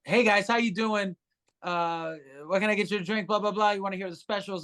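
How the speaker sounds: mock perky waiter pitch to a table; chipper waiter spiel. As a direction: rattle off the waiter routine cheerfully. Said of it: "I was walking up going".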